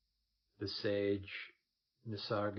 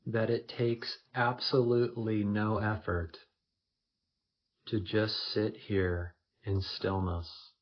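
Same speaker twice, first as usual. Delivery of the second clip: first-person meditation, slightly louder, in spaced phrases; guided meditation; 6 dB louder than usual. Acted. Leading listeners into effortless stillness, guided meditation voice. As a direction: say each phrase firmly, leaving long pauses.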